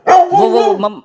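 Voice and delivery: scared stammer. Acted. Scared prisoner stammers before inspector.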